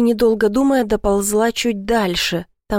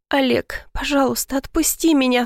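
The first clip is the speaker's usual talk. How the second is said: a small frightened plea; 5 semitones higher than usual. A narrator's reading. Pleading with her kidnapper.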